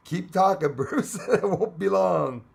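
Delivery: high, loud, drawn-out mock promise; teasing mimicry. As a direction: tease someone by parroting their words, stretched out. Teasingly mimics viewer's message.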